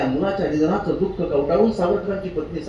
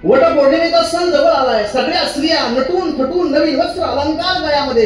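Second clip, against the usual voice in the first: वटपौर्णिमेचा सण जवळ आलाय said higher and louder, with जवळ stressed; emphatic higher louder repeat; 8 semitones higher, 5 dB louder than usual. Shown as a demonstration. Preacher repeats the festival line to the crowd, with जवळ stressed in a louder, higher voice. कुठला सण?.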